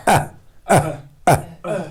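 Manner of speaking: isolated "اہ" bursts with a glottal catch; jolted hamza. Shown as a demonstration. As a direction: separate each "اہ" with a pause and jolt it. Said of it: "تھوڑا سا جھٹکے کے ساتھ".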